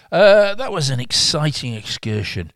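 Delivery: cheesy radio DJ. Shown as a demonstration. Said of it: "I sound like a real radio knobhead".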